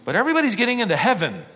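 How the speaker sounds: fast, with a sarcastic laugh. Acted. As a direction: laugh it off mockingly.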